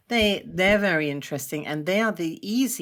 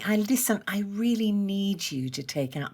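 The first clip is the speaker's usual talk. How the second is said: sweet request; 4 semitones higher than usual. Retold or imitated. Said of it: "my earth husband would much prefer".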